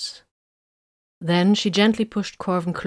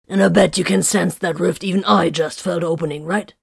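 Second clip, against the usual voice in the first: nonchalant. A narrator's reading. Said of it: "the rune priest prompted nonchalantly".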